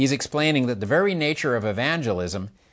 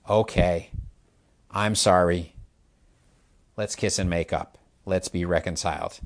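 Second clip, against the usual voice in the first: sheepish apology; 4 semitones lower than usual. Retold or imitated. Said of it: "eventually I crack".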